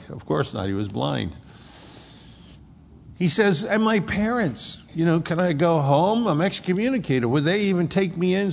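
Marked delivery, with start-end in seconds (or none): 3.6-8.5 higher, anxious and searching, voicing his troubled thoughts; bewildered healed man. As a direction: wonder aloud, lost and hurt. Healed man fears rejection.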